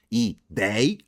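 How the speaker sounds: "Ideia" split into i-DEI-a; three syllables. Shown as a demonstration. Teacher counts syllables of Ideia for students, separated. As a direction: say "Ideia" in three spaced beats, last one rising. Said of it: "São três sílabas".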